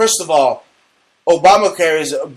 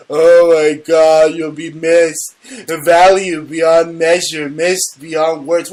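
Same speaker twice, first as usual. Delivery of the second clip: mock tribute; 4 dB louder, slower than usual. Mocking tribute to Obama.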